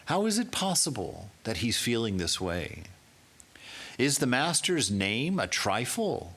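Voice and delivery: high-pitched, urgent questioning; grave and emphatic. Acted. Holy Mother to the disciple, grave and emphatic. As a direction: press each question home, grave and intent. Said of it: "began to say gravely and emphatically".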